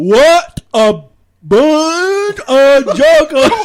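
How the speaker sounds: Deep South country bumpkin accent. Trying the voice again for the last episode: deep south country bumpkin accent. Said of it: "This deep south country bumpkin".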